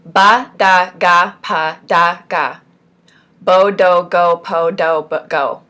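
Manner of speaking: crisp syllable drill; firm, evenly spaced syllables; clear articulation. Shown as a demonstration. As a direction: sound out every syllable distinctly. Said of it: "you're supposed to be repeating it clearly".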